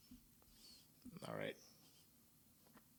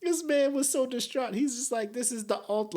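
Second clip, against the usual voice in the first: high-pitched, amused disbelief; cracking up; 12 semitones higher than usual. Real, not acted. Commentator cracking up over the distraught defendant, high voice. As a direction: squeeze it out high, close to laughter.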